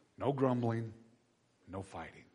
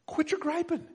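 quit your griping lifted higher; higher repeat. Shown as a demonstration. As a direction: repeat it pitched up, pressing the point. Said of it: "repeated command, higher take".

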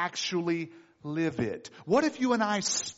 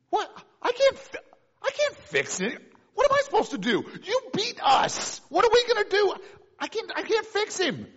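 panicked king; 13 semitones higher than usual. Acted. King panics over letter.

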